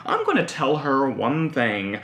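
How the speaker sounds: slow, scheming diary voice; reading a diary. Retold or imitated. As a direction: plot revenge line by line. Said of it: "writing in your day planner".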